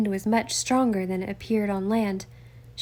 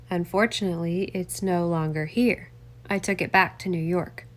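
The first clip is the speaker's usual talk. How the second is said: lightly voiced older man brushing it off; lower, dismissive politician; a hint of a defensive congressman; 3 semitones lower than usual. Congressman waving off his son's story, lightly voiced lower.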